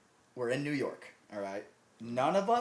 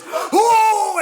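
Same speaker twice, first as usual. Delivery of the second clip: very high, very loud whoa; startled scream; 17 dB louder than usual. Retold or imitated. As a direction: scream it like ducking for the floor. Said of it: "He goes".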